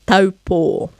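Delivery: "Taupo" with a long stressed final o; stress on last o. Shown as a demonstration. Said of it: "that's where our focus and stress is going".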